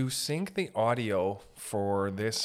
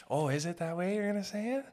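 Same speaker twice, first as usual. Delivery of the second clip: mock ghostly moan; 7 semitones higher than usual.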